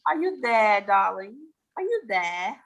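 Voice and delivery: playful put-on accent with dropped R's; theatrical accent, R's softened away. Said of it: "That was good accent".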